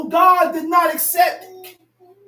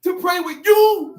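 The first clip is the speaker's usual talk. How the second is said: preaching shout; 3 semitones higher, 5 dB louder than usual. Acted.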